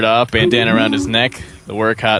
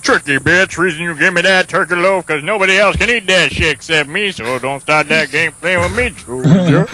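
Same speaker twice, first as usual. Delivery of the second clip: louder, higher scolding; tough angry voice; 5 semitones higher, 3 dB louder than usual. Acted. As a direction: put the kid in his place. Big Harold scolds Junior.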